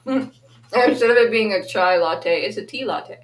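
praten met volle mond met s'mores; mouth full. Real, not acted. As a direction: speak through a mouthful of s'mores. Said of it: "I'm stuffing my face with s'mores".

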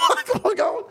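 high, giggling retold line; words broken by laughter; laughing through a quote. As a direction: laugh while quoting the brother. Brother's reaction retold, laughing.

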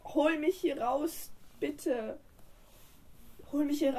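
high, loud mock cry; calling for help. Troll calls from the hole, hammed-up shout. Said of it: "Da rief er".

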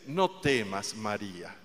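soft, tender angel voice; gently, with great love; quiet tender reassurance; with sweetness. Retold or imitated. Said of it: "Con cuánta dulzura, con cuánto amor".

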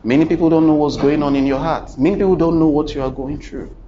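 fast, loud insistent preaching; intense preaching. Real, not acted. Preacher pressing the congregation, fast and loud.

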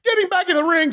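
high mock referee shout. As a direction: bark it like a frantic referee. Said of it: "says Nick Patrick".

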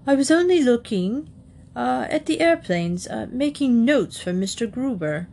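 high little bear voice, hesitant; nervous high-voiced bear starting his excuse; Paddington explaining. A narrator's reading. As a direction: explain yourself haltingly, pitched high. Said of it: "took a deep breath".

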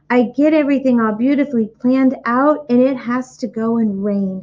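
a touch of a let-down piglet; young pig Wilbur. Acted.

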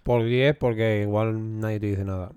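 talking with a mouthful; mouth full. Real, not acted. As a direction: speak around a bite of chocolate. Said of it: "perdón por hablar con la boca llena".

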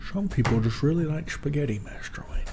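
hushed British butler imitation; soft mock-British, trailing into a whisper; butler parody. Host spoofing the film quote, hushed British parody.

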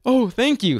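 high-pitched, gasping retold gratitude; delighted thanks. Fan thanking the player for his shirt, retold delightedly. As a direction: act out a thrilled little thank-you.

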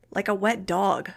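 slow, grumpy reply; irritable. A narrator's reading. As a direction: grumble it with mild irritation. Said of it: "he answered irritably".

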